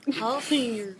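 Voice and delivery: put-on teasing Southern-accented echo; mimicked Southern accent. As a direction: mimic the Southern "-yer" on jalapeno. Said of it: "She just said you have an accent".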